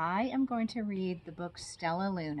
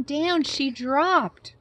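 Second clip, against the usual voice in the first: slow falling down; 8 semitones higher, 10 dB louder, much slower than usual. A narrator's reading. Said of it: "repeated down for effect".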